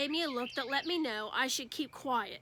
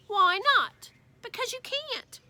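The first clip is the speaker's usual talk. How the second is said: put-on high childish back-and-forth; quick sibling squabble; lightly voiced kid argument; kids bickering; 10 semitones higher, 7 dB louder than usual.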